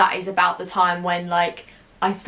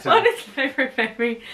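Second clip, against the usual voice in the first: mock voice retry; 5 semitones higher than usual. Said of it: "Try that one more time".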